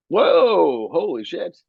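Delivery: high, drawn-out amazed exclamation; retold astonishment. Speaker recalls the moment it hit, high stunned awe. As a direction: let the amazement swoop up high.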